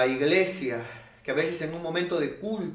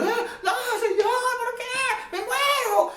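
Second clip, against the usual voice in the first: much higher, hammed-up wail; mock despair; slower than usual. Desperate believer wailing to the Lord, hammed-up. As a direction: ham up the panic.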